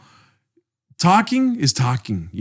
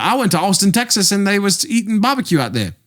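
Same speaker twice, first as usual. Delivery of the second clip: higher-pitched, nonstop mock Australian chatter; Australian accent; 5 semitones higher than usual. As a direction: ramble on in a bad Australian accent. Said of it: "He would not stop talking".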